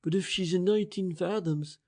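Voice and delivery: breathless awed gasp. Acted. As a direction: breathe it out in awe. Price's voice continues.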